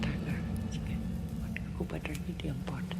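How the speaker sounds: susurrando sin voz, muy bajito; whisper. Real, not acted. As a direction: cuchichea como en confidencia. Anciana habla bajito al grabar. (susurro suave de abuela)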